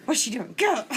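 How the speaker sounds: a light giggly imitation of a baffled husband, rising on get up; laughing mock husband. Husband finds his wife on the store floor, laughing retelling. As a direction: quote him half laughing.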